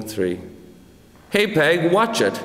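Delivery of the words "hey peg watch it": higher-pitched, lightly shouted warning; mild shout. A narrator's reading. Landed apple calling out to Peg, mildly shouted. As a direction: call out a warning, only mildly raised. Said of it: "he shouted".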